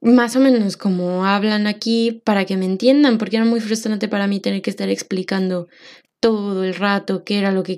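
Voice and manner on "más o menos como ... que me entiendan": frustrated. Retold or imitated. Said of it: "me daba mucha rabia porque yo decía".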